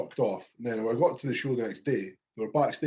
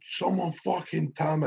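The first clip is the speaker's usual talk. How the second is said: higher pleading demand; mock desperate plea; 6 semitones higher than usual. Davy going mental, retold.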